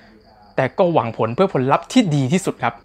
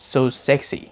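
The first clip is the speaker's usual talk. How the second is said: low sultry murmur; 7 semitones lower, 5 dB quieter, much slower than usual. Retold or imitated. Judge murmurs praise of show.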